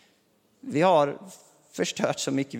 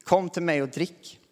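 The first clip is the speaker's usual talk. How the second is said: calling out; 2 semitones higher than usual. Acted. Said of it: "bara ropar ut det här".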